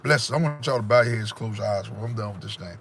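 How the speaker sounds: ordinary talk, nothing marked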